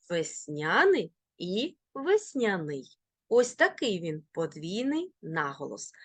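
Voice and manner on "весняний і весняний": весняний stressed on ня, then on ний; double stress. Shown as a demonstration. Teacher showing both allowed stresses, double stress. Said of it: "можуть наголошуватися бінарно".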